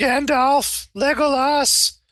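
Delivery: screaming in terror. Voicing a character being dragged under the water: terrified screaming. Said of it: "He starts screaming".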